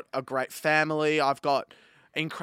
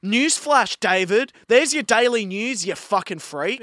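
loud, higher, furious rant; angry rant; 7 semitones higher, 4 dB louder than usual. Real, not acted. Hosts answering their online critic, a loud furious rant. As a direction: tear into him at full volume. Ranting back at David.

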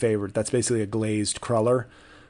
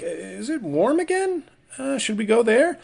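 voicing bugs; 10 semitones higher than usual. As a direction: play a dim bug checking the weather. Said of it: "they don't even need a day to go, like".

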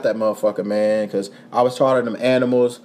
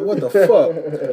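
laughing; much slower than usual. Retold or imitated. Retold shock, slow with a laugh.

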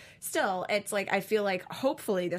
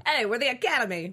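higher, louder stuffy Academy voice; snobby Academy voice; 5 semitones higher, 5 dB louder than usual. Retold or imitated. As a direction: play the pompous Academy. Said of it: "What's their voice sound like?".

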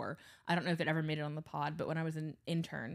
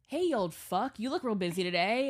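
louder, higher sassy roast; cheeky comeback; 4 semitones higher, 5 dB louder than usual. Retold or imitated. Intern finally roasting the coach, louder sassy jab. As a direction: fire back a cheeky roast. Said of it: "I was like".

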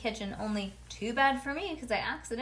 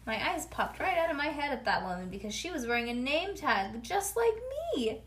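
ordinary delivery

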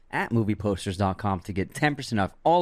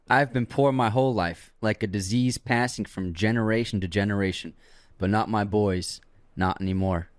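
put-on southern accent. Podcast host quizzes cohost, mild southern accent. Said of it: "You did it in a southern accent".

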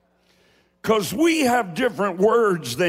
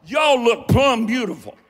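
Appalachian accent; 4 semitones higher, 3 dB louder than usual. Shown as a demonstration. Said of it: "Please speak Appalachian around me".

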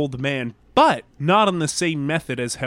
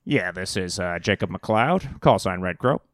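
ham radio voice; 10 semitones lower, 4 dB quieter than usual. Acted. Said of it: "you dropped your ham radio voice".

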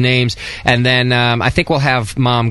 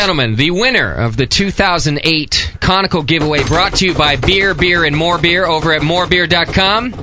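grand, raised announcer delivery; 5 semitones higher than usual. Pretend. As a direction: announce it like a game show host. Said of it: "Do it in your best accent".

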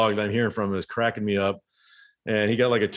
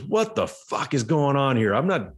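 mock outraged yell, rising high; retold yelling; 5 semitones higher than usual. Runner yelling at the catcher after a pickoff try, mock outrage. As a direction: act out the indignant runner, pitch climbing. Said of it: "yelling at Benito Santiago".

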